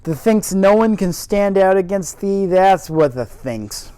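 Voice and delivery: loud, slowing Yorkshire gardener; faux Yorkshire accent. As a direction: drag the end out in faux Yorkshire. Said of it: "my terrible faux Yorkshire accent".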